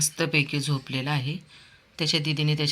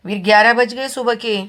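ग्यारह punched high and loud; stress on ग्यारह; 7 semitones higher, 7 dB louder than usual. Real, not acted. Owner teasing the late-sleeping dog, ग्यारह stressed high and loud. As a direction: tease him about the late hour.

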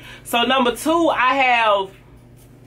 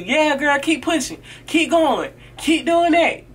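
a higher, lightly cheering voice; mock encouragement; 5 semitones higher than usual. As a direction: cheer a friend on. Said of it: "she encouraging you".

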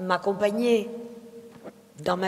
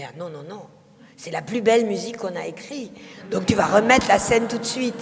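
louder and faster, insisting on the scene; retold insistence from the composer; insistent protest; 6 dB louder, faster than usual. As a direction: push back hard, it's his best music. Stuart insists the scene returns.

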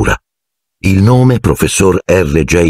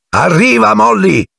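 higher voice calling back; husband calling back to his wife, raised voice. Acted. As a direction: answer her across the platform. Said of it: "Disse il signor Weasley".

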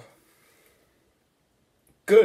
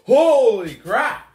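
loud, slow high holy crap; loud exclamation; 8 semitones higher, 8 dB louder, slower than usual. Real, not acted. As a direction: blurt it out in shock. Ghost pepper heat hits.

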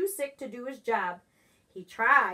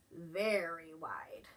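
slow, soft whisper; low, slow, breathy narration; 7 semitones lower, 9 dB quieter, slower than usual. A narrator's reading. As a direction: hush it to a whisper. Narration of stretched wings.

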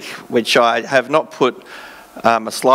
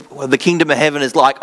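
excited; faster than usual. Shown as a demonstration. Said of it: "I just get excited".

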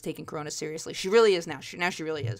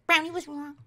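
higher nagging mom refrain; same gripe, pitched way up; complaining mom; 9 semitones higher than usual. Retold or imitated. Mom still griping next day, mock nagging.

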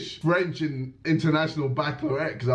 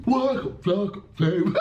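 mock fake Chinese; 3 semitones higher than usual. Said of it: "I'm just copying my man".

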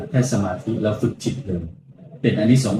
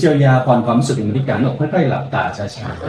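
guided meditation. Acted. Monk leads guided meditation.

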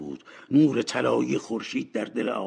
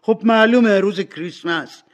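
high, surprised reply, loud at first; astonished; 9 semitones higher, 12 dB louder than usual. Acted. Boy answering Scrooge's odd question, astonished. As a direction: answer as if it were obvious, amazed. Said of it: "با تعجب گفت".

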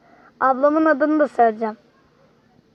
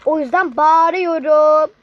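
deliberate shouting; 4 dB louder, slower than usual. Real, not acted. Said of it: "Canım bağırmak istedi".

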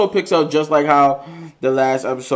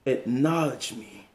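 tribal chief voice; 2 semitones lower, 8 dB quieter, slower than usual. Pretend. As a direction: command the tribe like a chief. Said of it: "I gotta do it in my tribal chief voice".

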